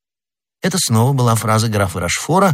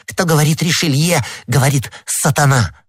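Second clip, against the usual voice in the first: higher, emphatic condemnation; indignant, pitched-up retort; heated exclamation; 6 semitones higher than usual. Acted. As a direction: exclaim it as a damning verdict. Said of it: "воскликнула молодая женщина".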